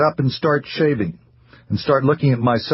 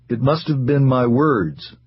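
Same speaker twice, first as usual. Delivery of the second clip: slow, hesitant; 3 semitones higher than usual. Acted. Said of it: "he said finally".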